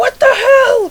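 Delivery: loud high-pitched drawn yell.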